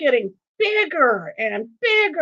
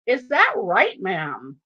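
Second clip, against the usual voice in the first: amused officer; slower than usual. Retold or imitated. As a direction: act out a cop's amused query. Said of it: "very amused, and he goes".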